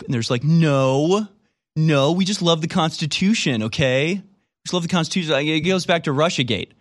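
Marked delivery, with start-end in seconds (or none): 0.4-5.3 mock innocent protest. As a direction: deny it like a kid who got caught. Mocking Democrats' denial.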